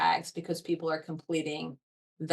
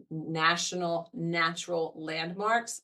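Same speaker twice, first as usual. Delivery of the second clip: careful, word-by-word enunciation; deliberately slow; slower than usual. Real, not acted. Foundation speaker naming a tongue-twisting checklist, deliberately slow. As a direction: pick through it slowly like a tongue twister. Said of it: "I always have to say that slow".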